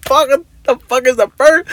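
high, exasperated swearing at the missing purse; frustrated outburst. Retold or imitated. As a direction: blurt it out in mock panic. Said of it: "I'm like".

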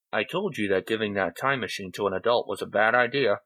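a slightly muffled big tiger. Acted. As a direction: voice a big cat, words a little muffled. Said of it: "His words were slightly muffled".

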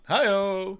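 high, loud drawn-out holler; playful whooping catchphrase; rallying call. Retold or imitated. Acted rallying cry from film.

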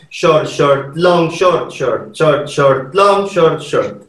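chanting short and long for the eleven; short long rhythm. Shown as a demonstration. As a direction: mark each short and long. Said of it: "for the eleven".

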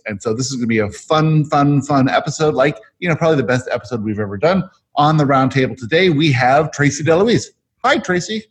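wired and a bit fast; buzzing on coffee, racing ahead; too much caffeine. Real, not acted. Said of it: "Can you tell that I've had three cups of coffee already?".

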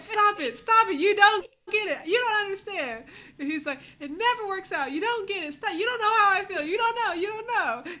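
loud, high imitated angry rant; mock meltdown. Retelling Zach's meltdown at his wife, loud and high. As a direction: ham up his frantic refusal.

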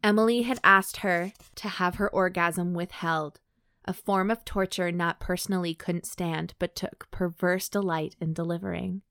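measured, even audiobook read; composed narrator, pausing between phrases; story narration. A narrator's reading. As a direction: read the story aloud with clear, careful phrasing. Reads erotic fiction aloud.

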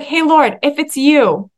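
lightly cheeky, daring request. Acted. Disciple asking Jesus to call him out, cheeky. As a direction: ask boldly, with a touch of cheek. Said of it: "like, cheekiness to be like".

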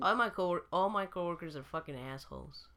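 low, soft, smiling mock complaint; said with a smile. Real, not acted. Teasing coworkers on the show, said with a smile. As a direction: insult delivered with a smile, slightly soft. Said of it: "Said with a smile".

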